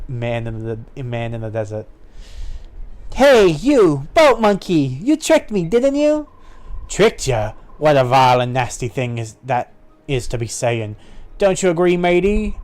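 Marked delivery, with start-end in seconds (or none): 3.1-6.3 high, louder indignant heroine; acted outrage, pitched up; indignant accusation. Accusing the pirates in story. 6.9-11.0 wily pirate feigning offense; a hint of pirate roguery; lightly voiced pirate. 11.4-12.6 higher pirate prompting a mate; lightly voiced pirate. Pirate appeals to his mate.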